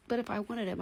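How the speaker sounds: ordinary delivery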